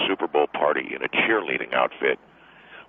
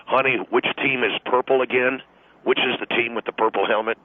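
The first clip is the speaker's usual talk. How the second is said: higher, mock-dumb wife voice; imitating a clueless wife, pitched up; mock wife asking; 6 semitones higher than usual. Husband mocks his wife at the game, in a higher mock voice. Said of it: "they all sit there and".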